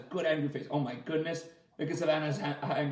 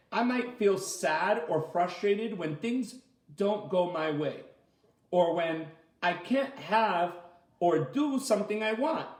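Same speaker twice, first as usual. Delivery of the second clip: gentle read-aloud; reading to children; 2 semitones higher than usual. A narrator's reading.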